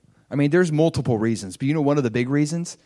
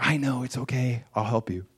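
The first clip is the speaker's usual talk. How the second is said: gentle God; 7 dB quieter than usual. Retold or imitated. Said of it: "And he's like".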